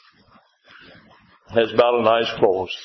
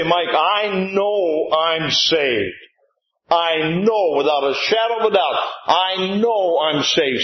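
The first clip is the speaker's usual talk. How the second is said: slow, deliberate statement of faith; slow sincere confession; 4 semitones higher, slower than usual. Shown as a demonstration. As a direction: model the words slowly for the congregation. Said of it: "If you can say".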